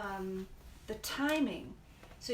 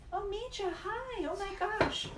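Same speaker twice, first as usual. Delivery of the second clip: very high, thrilled greeting; excited, pitch leaping right up; delighted surprise; 11 semitones higher than usual. Real, not acted. Spots an old school friend watching.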